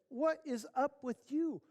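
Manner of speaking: high, slow incredulous question; exasperated wife. Acted. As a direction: demand an explanation from a cowering husband. Exasperated wife questions cowering husband.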